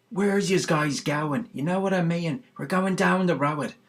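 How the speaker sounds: loud, high Dublin accent, drawn out; typical Dublin accent. Shown as a demonstration. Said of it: "like, typical Dublin accent is".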